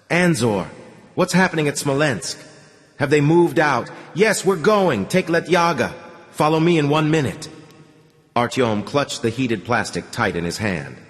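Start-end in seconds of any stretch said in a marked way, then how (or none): 0.1-7.5 higher, clipped urgent orders; giving orders. Acted. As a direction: bark quick commands to men. Commanders give orders.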